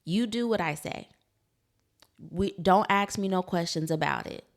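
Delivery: mildly stern parent demand; strict old-school parent. Retold or imitated. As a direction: lay down the law like an eighties parent. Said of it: "it was very much".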